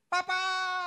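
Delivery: put-on high, loud child's call. Little boy spotting his papa after service, loud call. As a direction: shout for papa across the room.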